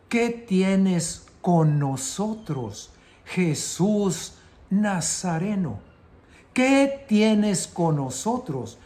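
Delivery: slow, drawn-out mock outcry; mild acted cry. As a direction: call it out slowly, like a demon confronting Jesus. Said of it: "empezó a gritar y decía". (grito contenido, lento y dramatizado)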